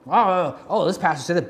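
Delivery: a hint of an eager parrot repeating the pastor; mock parroting. Preacher imitating people who parrot pastors, mild mock eagerness.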